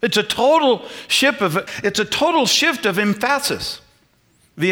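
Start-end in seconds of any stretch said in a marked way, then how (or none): 3.0-3.8 "emphasis" as em-FASS-is; shifted word stress. Shown as a demonstration. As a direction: stress the second syllable of "emphasis". Deliberately shifts the word's stress.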